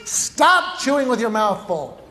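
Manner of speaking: mock stern mom, words stretched out; lightly acted parental scolding. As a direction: imitate a mother's slow, exasperated telling-off. Mom scolding child in restaurant.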